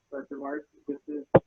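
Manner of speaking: audio cutting out, garbled and distant; choppy broken connection sound; corrupted glitchy audio. Real, not acted. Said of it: "Your, your audio is cutting out there".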